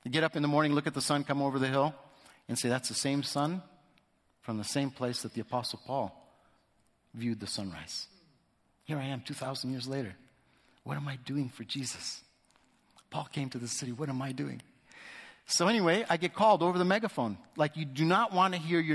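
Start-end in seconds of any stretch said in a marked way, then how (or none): 2.7-14.6 softer, hushed wonder at walking where Paul walked; quiet soul-searching question; hushed awe. Real, not acted. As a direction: let it drop to a near-private reflection. Awed reflection on Paul's city.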